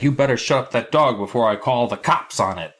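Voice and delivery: lightly voiced grouchy neighbour; grumpy neighbour. Retelling the neighbour threatening the kids over the dog, mock cranky.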